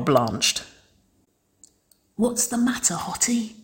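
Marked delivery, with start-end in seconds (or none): 2.2-3.6 airy, breathy hush for effect; stage whisper. A narrator's reading. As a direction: whisper it so everyone hears. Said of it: "Wynonna Stage whispered".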